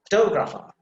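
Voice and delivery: photographer with a clear stressed "to"; clear TA sound. Shown as a demonstration. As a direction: model the "to" in photographer distinctly. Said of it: "ta sound is there".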